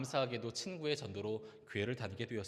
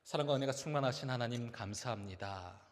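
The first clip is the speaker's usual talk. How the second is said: prayer. Acted. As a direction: lead the church in prayer. Closing prayer. (느리고 경건한 기도)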